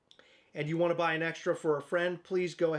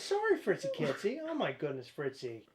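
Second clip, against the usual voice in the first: high soothing pet voice; 3 semitones higher than usual. Real, not acted. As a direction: coo to calm the scared cat. Soothing the frightened cat.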